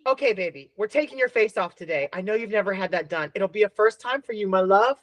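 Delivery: put-on soft, tender baby talk to a dog; cooing to a dog. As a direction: coo it gently, like soothing a nervous pup. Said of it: "here's another one".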